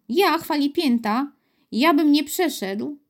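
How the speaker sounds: huffy, incredulous echo of an accusation; indignant bristling. A narrator's reading. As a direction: bristle at being doubted. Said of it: "zaperzył się Piotr".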